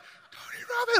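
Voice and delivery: high, breathy fanboy squeal of the name; starstruck squeal. Retold or imitated. Retelling his phone call with Tony, a starstruck high squeal. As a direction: gasp the name like a starstruck fan.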